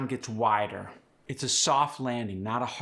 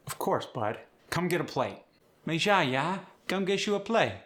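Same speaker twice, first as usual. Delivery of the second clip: higher, lilting Cajun welcome; Cajun host; 5 semitones higher than usual. Shown as a demonstration. Host urging a guest to a plate, higher Cajun voice. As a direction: call them in to eat.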